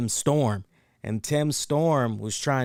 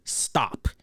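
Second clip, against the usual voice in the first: whisper; 2 semitones lower than usual. Retold or imitated. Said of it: "he's literally saying".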